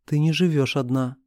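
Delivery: ordinary delivery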